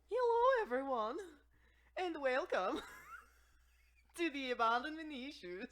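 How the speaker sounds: very high, loud clown voice. Acted. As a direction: shriek it like a circus clown. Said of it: "That was my clown voice".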